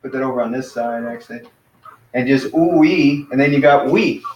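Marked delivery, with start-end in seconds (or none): 2.5-3.3 ooh-wee drawn out slowly, ooh gliding to wee; ooh-wee, slow and careful; sounding it out. Shown as a demonstration. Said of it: "get rid of the oops part".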